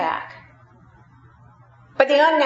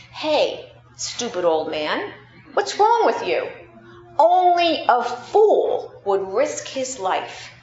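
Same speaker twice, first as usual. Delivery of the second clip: sharp, mocking scold, pitch jumping higher; scornful passerby; 3 semitones higher than usual. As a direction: scoff at the fool who risks his hand. Passerby scolds the old man.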